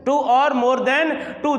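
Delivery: said slowly again, each word spaced; slow repeat. Shown as a demonstration. Teacher repeating a definition slowly for students. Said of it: "जो दो या दो से अधिक शब्दों से".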